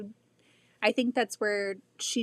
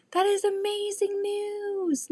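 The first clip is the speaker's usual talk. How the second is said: delighted; 10 semitones higher than usual. Real, not acted. Reacting to good news.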